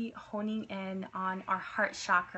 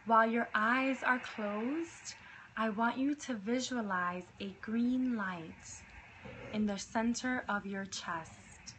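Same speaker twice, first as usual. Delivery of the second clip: right in your ear. Acted. Leads a meditation.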